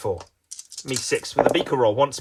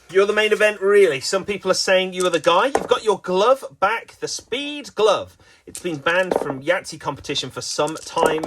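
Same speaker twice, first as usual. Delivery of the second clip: lively, raised play-by-play hype; mock sports commentary; 4 semitones higher than usual. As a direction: hype up a dice player like a main event. Mock sports commentary on a dice game.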